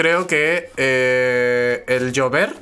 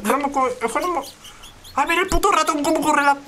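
exasperated outburst; 11 semitones higher than usual. Real, not acted. Frustrated rant at a mouse.

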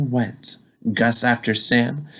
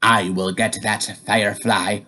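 gruff hot dog man; 4 semitones lower than usual. Acted. Hot dog man's threat.

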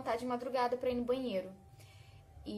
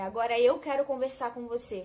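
loud, commanding voice of authority; authoritative voice; 5 dB louder than usual. Retold or imitated. A voice in the dark room demanding to talk, loud and commanding. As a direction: speak down to her with firm command. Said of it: "Falava com muita autoridade".

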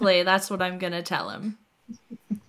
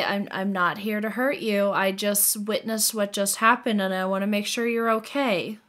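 gentle reassurance. Acted. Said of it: "so I'm less threatening".

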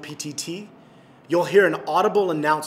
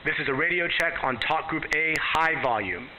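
radio at high volume. Shown as a demonstration. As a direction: voice heard over a radio. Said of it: "go all the way to high volume".

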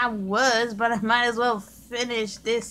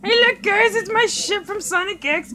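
excited calling out; 7 semitones higher, 5 dB louder than usual. Acted.

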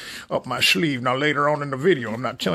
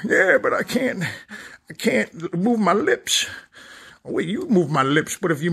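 whiny dummy complaint; 5 semitones higher than usual. Acted. Dummy complains he can't smoke.

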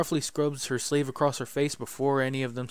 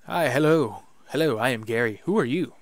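louder, eager little goblin greeting; excited goblin; 6 dB louder than usual. Acted. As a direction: bounce through the hello like a giddy goblin. Goblin Gary voiced.

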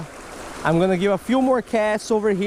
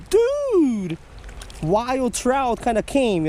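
imitating past excitement; 4 semitones higher, much slower than usual. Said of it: "I was so excited".

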